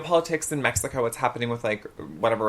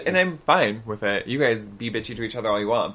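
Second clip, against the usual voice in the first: ordinary talk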